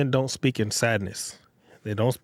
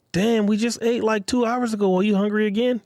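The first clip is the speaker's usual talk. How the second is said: irritated, higher and sharper; frustrated; 10 semitones higher than usual. Retold or imitated. Boyfriend snapping at his hungry girlfriend, irritated. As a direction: snap it back like he's fed up. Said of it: "You hear that? That's frustration".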